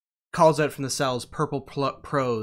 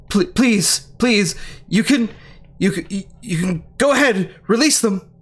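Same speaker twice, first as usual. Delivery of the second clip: nervous pleading; 4 semitones higher than usual. Acted. Captured doctor begs to release prisoners.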